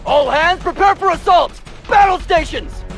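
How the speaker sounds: rallying battle cry; overacted anime dub. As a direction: rouse the troops to attack. Major rallies troops for attack.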